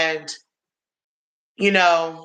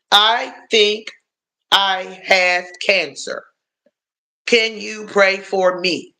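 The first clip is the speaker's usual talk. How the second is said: mock pitiful ex; slower than usual. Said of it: "That was his words".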